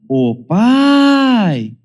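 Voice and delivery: high, loud whiny tattling to dad; child accusing sibling to father, whiny complaint; accusing child's call. Retold or imitated. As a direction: complain to dad like a wronged kid.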